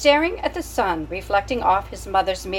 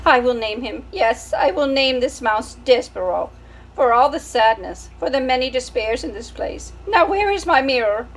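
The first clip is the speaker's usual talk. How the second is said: put-on French-accented, higher and louder, grand; French mother; 4 semitones higher, 3 dB louder than usual. French mother naming her son Despereaux. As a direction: proclaim the name in a French accent. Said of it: "She was a French mouse".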